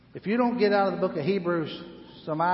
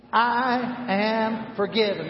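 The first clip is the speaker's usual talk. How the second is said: congregation repeating I am forgiven slowly; slow declaration; 7 semitones higher, 5 dB louder, slower than usual. Shown as a demonstration. Pastor and congregation repeating slowly together. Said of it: "Say that with me".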